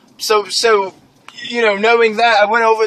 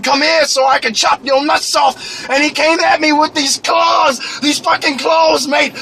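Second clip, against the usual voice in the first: high, slow mock yell; hammed-up battle shout; shouted challenge; 5 semitones higher, slower than usual. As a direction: bellow the challenge. Challenging evil guy, yelling.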